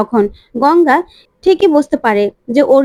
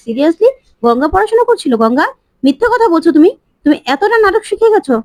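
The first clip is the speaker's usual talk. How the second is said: incredulous accusation; 5 semitones higher than usual. Acted. Ahona mocks Ganga's claim of studying, rising incredulous scorn. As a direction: voice climbing higher, mocking disbelief.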